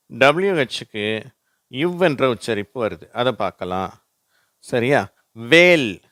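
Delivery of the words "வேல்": வேல் with V-like W, no H; silent H. Shown as a demonstration. Teacher models H going silent, silent H. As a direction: say வேல் loudly, H left silent. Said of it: "இங்க எச் silent ஆயிடுச்சு".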